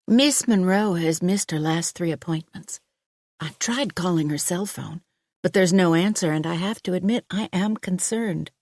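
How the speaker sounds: a concerned doctor, courteous; female doctor voice. Acted. Doctor worried.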